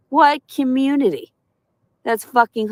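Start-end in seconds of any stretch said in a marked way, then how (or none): 0.1-1.3 scoffing disbelief. Real, not acted. Ranting at viewers, scoffing high with disbelief. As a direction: pitch jumps high in mock disbelief. Incredulous repeat of her words.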